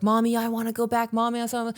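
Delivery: child in the car whining at mommy, mock-whiny kid voice. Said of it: "that conversation might look like".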